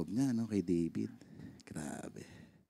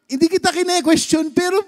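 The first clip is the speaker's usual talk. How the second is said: higher, louder tearful cry to God; mock-tearful lament, raised voice; retold crying prayer; 7 semitones higher, 4 dB louder than usual. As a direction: replay the anguished plea, half-sobbing. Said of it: "Talagang umiyak ako kay Lord".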